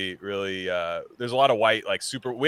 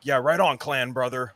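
laid-back surfer bro drawl; 4 semitones higher than usual. Retold or imitated. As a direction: imitate a white surfer dude. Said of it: "a white surfer voice thing".

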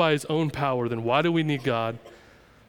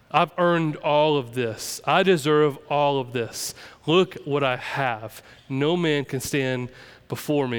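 mock proud boast; slower than usual. Slow mocking of proud believer.

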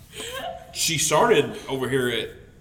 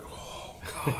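disgusted; 12 dB quieter than usual. Retold or imitated.

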